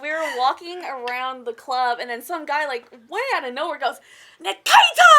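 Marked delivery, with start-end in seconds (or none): 4.4-5.1 high, loud pirate yell of the name. Retold or imitated. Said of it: "said Nikita's name in, uh, in pirate voice".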